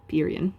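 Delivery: "Pyrrhian" as PEER-ee-un; chosen pronunciation. Shown as a demonstration. Lecturer picks one of several pronunciations, "Pyrrhian" as PEER-ee-un. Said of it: "pronounced a couple of different ways".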